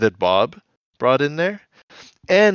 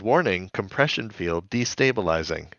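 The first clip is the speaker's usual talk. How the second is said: low, soft seductive computer announcement; sexy computer voice; 4 semitones lower, 5 dB quieter than usual. Retold or imitated. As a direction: purr it like a sultry ship computer. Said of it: "an automated sexy voice that says".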